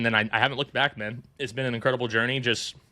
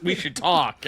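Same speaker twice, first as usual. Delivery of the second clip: higher, mock-serious business tone; restaurant owner's line; 5 semitones higher, 3 dB louder, slower than usual. Restaurant owner tells the son they should talk, lightly mimicked. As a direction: imitate the owner leaning in on a deal. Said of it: "He just goes".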